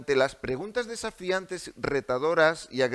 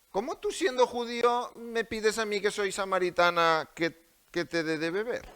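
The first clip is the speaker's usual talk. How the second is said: defiant challenge; 5 semitones higher than usual. Acted. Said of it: "poner vosotros el tono".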